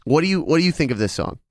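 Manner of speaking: calling through a closed door; from another room. Real, not acted. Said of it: "he is now in the other room".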